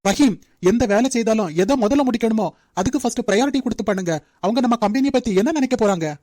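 stern scolding. Acted. Boss scolding an employee over mistake.

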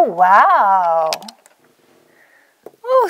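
ordinary talk, nothing marked

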